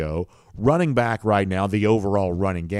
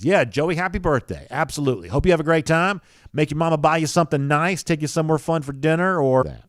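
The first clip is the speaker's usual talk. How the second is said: bright lift, pitched well up and louder; cheery birthday shout-out; 8 semitones higher, 5 dB louder than usual. Real, not acted. Host wishing a viewer's son happy birthday, cheery and high. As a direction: send an upbeat, higher-pitched birthday wish.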